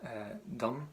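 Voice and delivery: southern Irish dialect. Retold or imitated. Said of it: "down south, in their dialect, they'd say".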